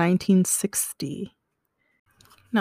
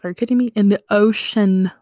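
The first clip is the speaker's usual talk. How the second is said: loud, incredulous outburst; can't believe someone would do that; disbelief; 5 dB louder, faster than usual. Real, not acted. Disbelief at the long dive.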